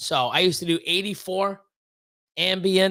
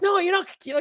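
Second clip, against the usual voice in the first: high-pitched "no way" reply; high, insistent retelling; retold insistent protest; 13 semitones higher, much faster than usual. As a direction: act out brushing off their politeness, pitched right up. Retelling own insistent reply to visitors.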